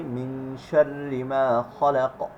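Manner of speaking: slow, measured recitation with thin R in "শাররি"; Quranic recitation. Shown as a demonstration. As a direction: draw out "মিন শাররি মা খলাক" as in tajweed practice. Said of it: "আমরা সূরা ফালাকে পড়ি". ("শাররি"-র র পাতলা রেখে ধীরে তিলাওয়াত)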